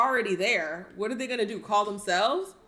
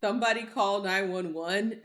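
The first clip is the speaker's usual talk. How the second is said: mocking imitation; 3 semitones lower than usual. Mocking the woman's plea.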